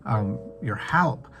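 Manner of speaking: crying out to God. Acted. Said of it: "when we cry out to him and we say".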